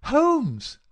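very loud, high shout to wake a sleeper. A narrator's reading. Visitor rousing an unresponsive sick man, shouting insistently. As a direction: shout his name hard and high. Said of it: "the insistent tone of one who awakens a sleeper".

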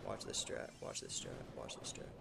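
low hushed whisper; whispered brag. Real, not acted. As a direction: whisper it like a secret plan. Whispered brag before play.

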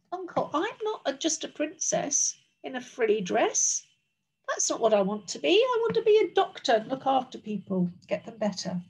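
quick, lightly voiced princess plea; protesting princess. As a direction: hurriedly explain yourself to your uncle. Princess argues with her uncle.

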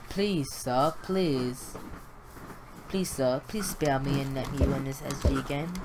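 lightly put-on British accent; British pleading voice. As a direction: beg with a hint of mock British. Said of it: "using his British voice saying".

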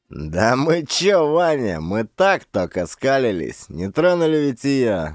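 drawn-out weaselling excuse; wheedling. Acted. Thugs excusing themselves to boss Vanya, wheedling. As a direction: squirm out of blame before the boss. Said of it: "Заюлили урки".

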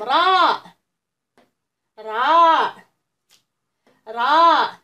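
letter called out loudly, clear and drawn; loud model letter. Shown as a demonstration. Teacher drilling young pupils aloud. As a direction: say it big so the kids copy. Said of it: "غتعاودوا من مورايا".

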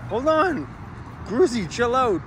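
high, urgent call to the dog; excited. Real, not acted. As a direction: stop the dog, pitched high. Dog gulping ice cream.

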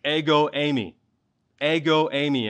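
Ego eimi said as EH-go AY-mee, stress on the first syllable of each word; Greek words spoken. Shown as a demonstration. Preacher reading the Greek to his congregation, careful pronunciation. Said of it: "literally reads".

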